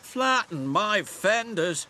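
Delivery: loud, high exclaim, then slow; shouting. A narrator's reading. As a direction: cry out in dismay. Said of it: "shouted Monty".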